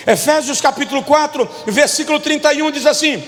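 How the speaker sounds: emphatic scripture reading with long pauses; leitura bíblica enfática. Real, not acted. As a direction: proclaim each word of the list separately. Reads scripture to the congregation. (leitura bíblica pausada e enfática)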